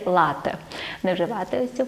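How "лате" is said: лате with the stress on "ла", LA-te; first-syllable stress. Shown as a demonstration. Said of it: "правильно говорити тільки".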